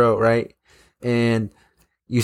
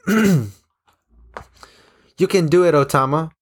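girl's cheer retold as a mock yell; 5 semitones higher than usual. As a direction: call out encouragement to a friend.

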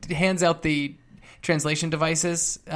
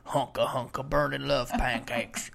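slow drawling redneck voice; 5 semitones lower, 7 dB quieter, slower than usual. Acted. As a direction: lay on a country redneck twang. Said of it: "This is my redneck voice".

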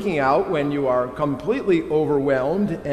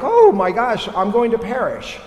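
mock panic; 6 semitones higher, 4 dB louder than usual. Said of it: "and you're like".

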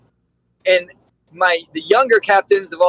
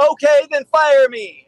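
slow, high calling the bluff; officer calling his commander's bluff; defiant; 8 semitones higher than usual. Retold or imitated. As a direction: dare him, unbothered. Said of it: "And I'm like".

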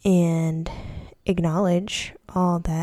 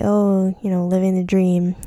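mildly sarcastic stock reply; 3 dB louder than usual. Retold or imitated. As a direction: toss it off with a touch of irony. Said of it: "kind of sarcastically".

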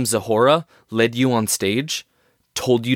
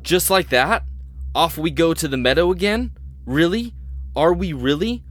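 incredulous; 6 semitones higher than usual. Acted. Anderson scoffs at going back.

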